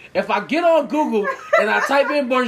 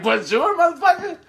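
mock French greeting; 8 semitones higher than usual. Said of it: "Y'all looking at me like".

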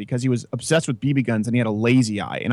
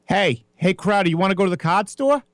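put-on Boston accent; 6 semitones higher than usual. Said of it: "they were severe Boston accents".

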